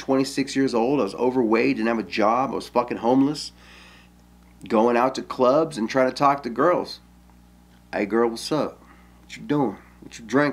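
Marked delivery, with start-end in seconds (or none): 7.9-10.5 mock Los Angeles gangster speech. Retelling how he talked to girls at clubs: imitating own past gangster talk. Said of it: "Talking like, 'cause I was a gangster. I was from L A".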